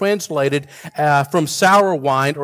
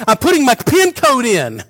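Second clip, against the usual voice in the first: higher, dazed wife voice; imitating wife; 7 semitones higher, 4 dB louder than usual. Drugged wife explaining the microwave, dazed voice. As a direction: play her as matter-of-fact and confused. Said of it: "She goes".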